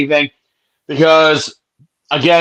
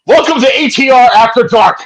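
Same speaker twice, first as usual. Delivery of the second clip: late-night announcer; 8 semitones higher, 4 dB louder than usual. Pretend. Mock late-night show intro.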